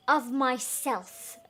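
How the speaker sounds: slow, smug stretch; self-satisfied mayor; vain drawl. Acted. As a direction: savour it vainly.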